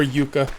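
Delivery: yucca said YOO-kuh; alternate pronunciation. Shown as a demonstration. Player correcting the plant's name, yucca as YOO-kuh. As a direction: say yucca with a long "yoo" start. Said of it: "Some people say yucca".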